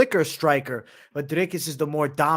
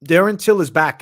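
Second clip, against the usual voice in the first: louder, higher hyped shout of the name; hype announcement; 5 semitones higher, 9 dB louder than usual. Acted.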